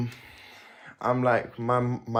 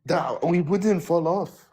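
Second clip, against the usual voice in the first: put-on slow words in a vague African-Caribbean accent; put-on foreign accent; 3 semitones higher, slower than usual. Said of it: "why did your accent change?".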